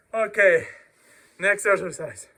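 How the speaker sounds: breathing hard between sets; winded pause to recover; catching breath. Real, not acted. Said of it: "I catch my breath".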